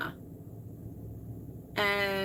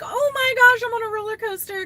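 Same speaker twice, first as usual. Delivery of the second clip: mock dizzy self; 11 semitones higher, 8 dB louder, faster than usual. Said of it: "I'm like".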